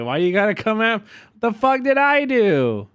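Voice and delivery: hammed-up offended protest, rising as it goes; mock outrage. Streamer protesting to chat, playfully outraged shout.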